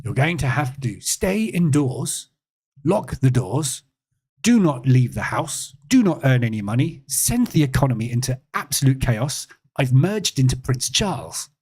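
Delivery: hammed-up bumbling politician issuing orders; emphatic, swooping mock statesman, sliding into royal plumminess; Boris. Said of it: "Boris grumble grumble".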